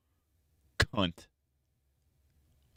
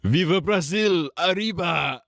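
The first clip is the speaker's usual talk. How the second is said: mock cheer; 9 semitones higher, 4 dB louder, slower than usual.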